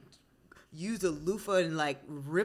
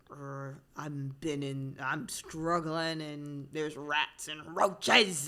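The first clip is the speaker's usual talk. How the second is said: put-on New York accent; 3 semitones lower, much slower than usual. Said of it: "they do sound real hard".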